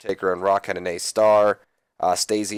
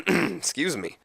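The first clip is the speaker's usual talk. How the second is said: throat-clearing grunt; 9 semitones higher, 3 dB quieter, slower than usual. Real, not acted. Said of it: "Grunting in your guys' ears".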